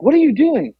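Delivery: high-pitched mock demand; exasperated repeated question, acted out; insistent dad, imitated. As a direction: imitate a baffled dad pressing for an answer.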